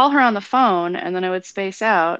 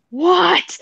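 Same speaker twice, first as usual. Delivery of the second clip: long, high, loud mock disbelief; incredulous; 11 semitones higher, 6 dB louder than usual. Friend reacting to a blurted confession, drawn-out and incredulous. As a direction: draw out a high, louder cry of disbelief. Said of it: "looked at me with this look like".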